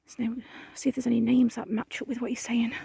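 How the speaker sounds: breathy hushed whisper to the camera. Real, not acted.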